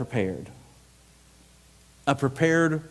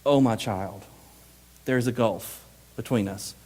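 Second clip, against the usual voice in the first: low, soft sorrow; quiet anguish; 3 semitones lower than usual. Shown as a demonstration. Abraham telling the rich man of the gulf, in quiet anguish. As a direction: let it drop low, pained and tender. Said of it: "anguish in Abraham".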